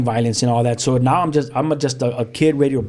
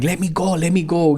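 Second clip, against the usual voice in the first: higher-pitched plea to be released; retold struggling protest; 5 semitones higher than usual. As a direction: imitate pulling free, without shouting. Retold struggle in dad's grip.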